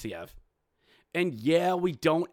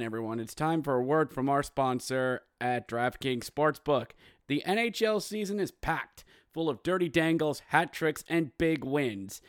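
ad read. Acted. Sponsor ad read.

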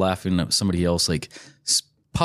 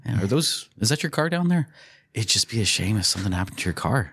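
smiling menacing loan shark. Retold or imitated. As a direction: lightly play the polite heavy. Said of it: "it's very Italian of him".

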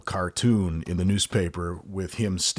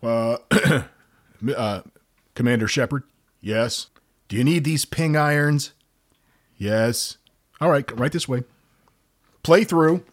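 golf caddie; 5 semitones higher than usual. Acted. Golf caddie skit with Shepard.

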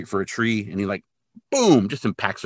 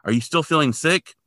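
worried wife calling; 7 semitones higher, 3 dB louder than usual. Retold or imitated. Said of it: "And she's like".

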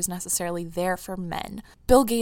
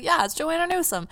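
imitating mom; 10 semitones higher, 3 dB louder than usual. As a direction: parody mom saying the name back, higher. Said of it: "And she's like".

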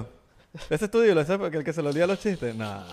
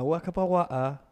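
mock English gibberish; 4 semitones higher, slower than usual. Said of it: "aprender a hablar".

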